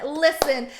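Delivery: loud sharp opener; a touch of a call to attention; mock snapping at everyone; confronting the room. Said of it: "walk in the room and be like".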